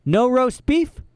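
high outraged yelp; outraged what. Acted. Olaf hearing there is no roast beef, outraged yelp. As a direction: snap it in disbelief. Shocked villain.

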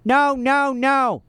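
put-on high baby squeal; baby shouting. A narrator's reading. Sunny refusing Olaf, high baby shout. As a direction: shout it like a tiny child. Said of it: "Sunny shouted".

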